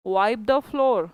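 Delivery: each word drawn out slowly for the class; very slow model answer. Shown as a demonstration. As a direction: spell it out slowly so they can copy. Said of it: "क्या बोलोगे". (बहुत धीरे, हर शब्द खींचकर)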